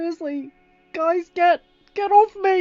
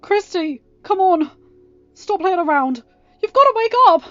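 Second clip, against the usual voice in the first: desperate pleading shout; 13 semitones higher, 20 dB louder than usual. Acted. Boy begs dead sister wake.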